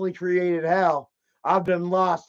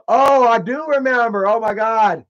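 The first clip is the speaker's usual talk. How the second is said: drawn-out, louder burst of remembering; sudden recall; 3 semitones higher, 5 dB louder, slower than usual. Real, not acted. Storyteller suddenly remembers what he said, excited. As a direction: exclaim it slowly as the memory hits.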